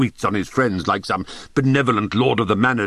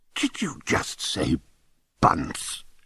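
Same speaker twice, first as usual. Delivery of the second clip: hoarse, disbelieving whisper; 4 semitones lower, 6 dB quieter than usual. A narrator reads Cromie reacting to the narrator's answer, Cromie's hoarse whisper of disbelief. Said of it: "he asked in a hoarse whisper of disbelief".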